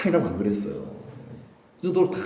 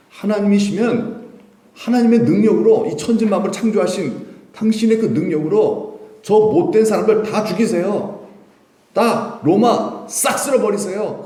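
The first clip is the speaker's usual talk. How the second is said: high, insistent demand; worked-up petition, pitched up; urgent urging; 7 semitones higher than usual. Acted. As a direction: press him hard to use his power. Acted Peter urging Jesus to strike.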